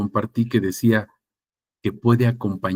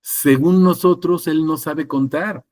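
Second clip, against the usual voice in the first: higher-pitched tongue-in-cheek claim, slow start; mock parody; 6 semitones higher than usual. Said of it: "a forma de parodia". (en tono de parodia, más agudo)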